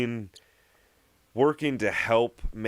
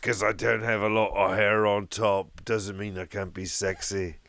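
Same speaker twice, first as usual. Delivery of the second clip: Sean Connery impression. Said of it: "he sounds like this now".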